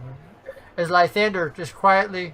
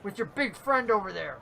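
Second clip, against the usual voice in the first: taunting halfling; faster than usual. Acted. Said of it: "He goes".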